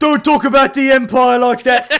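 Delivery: very high, shrill shout at full volume. Voicing a character who has pinned someone, yelling in character. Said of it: "he yells out".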